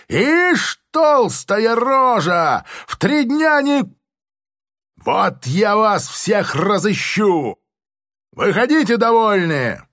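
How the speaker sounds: very high, loud furious shouting; major shrieking. A narrator's reading. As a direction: rage on, shrieking insults. Major keeps raging. (яростно визжит, очень высоко и громко)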